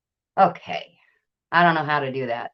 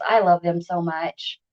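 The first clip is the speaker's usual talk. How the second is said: normal talking voice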